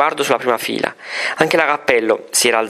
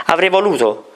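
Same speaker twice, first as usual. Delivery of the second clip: higher, each word set apart; clear and deliberate; 5 semitones higher than usual. A narrator's reading. Girl answering the nun, clear deliberate. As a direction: spell it out clearly. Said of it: "con voce chiara, scandendo le parole".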